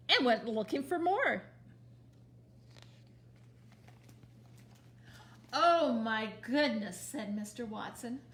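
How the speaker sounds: put-on lively read-aloud for small children; storytime reading. A narrator's reading. Librarian reading Mercy Watson to children, lively storybook voice. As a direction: read it to the kids with big expressive character voices. Reads picture book to children.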